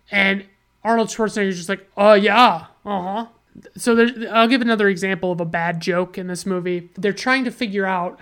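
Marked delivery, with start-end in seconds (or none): 1.9-3.3 loud, emphatic acted agreement; mock a confident bluff; playing along. Actor mistaken for Turbo Man going along, mock confident.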